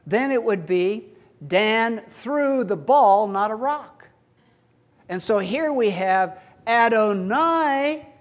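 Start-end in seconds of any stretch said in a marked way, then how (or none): 1.5-4.1 BALL punched loud, contrasted with "rock"; slow build to a strong "ball"; stress on ball. Shown as a demonstration. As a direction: land hard on "ball" as the object that matters. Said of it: "If we find the direct object first".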